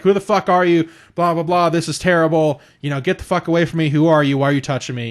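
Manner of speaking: mock indignant questions fired off in retelling; angry wife mimicked. Wife suddenly not knowing her husband, mildly hammed-up alarm.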